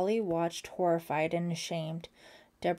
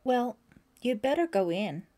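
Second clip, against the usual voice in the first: bright and upbeat, a bit higher and louder; cheerful; 5 semitones higher, 5 dB louder than usual. A narrator's reading. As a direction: perk up and send her off kindly. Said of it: "sounding cheerful again".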